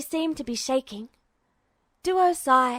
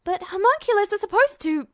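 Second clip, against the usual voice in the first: lightly voiced alchemist; 9 semitones higher, 4 dB louder, faster than usual. Alchemist explaining.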